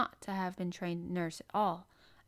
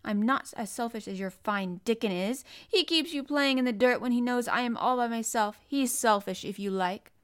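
louder, heated counter-accusation; snappish; 4 semitones higher, 7 dB louder than usual. A narrator's reading. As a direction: keep snapping back at her. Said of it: "snapped Colin".

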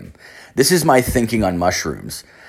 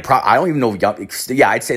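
normal talking voice

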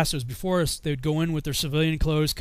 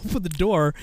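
usual speaking voice

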